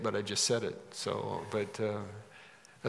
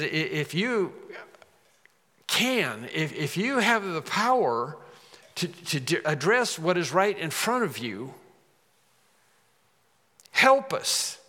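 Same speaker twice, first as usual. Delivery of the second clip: desperate plea; 4 semitones higher than usual. Acted. Father's plea voiced.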